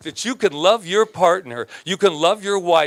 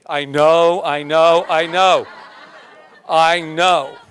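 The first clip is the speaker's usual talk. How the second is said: emphatic repetition; 5 dB louder, slower than usual. Real, not acted. Admitting his faults, repeated.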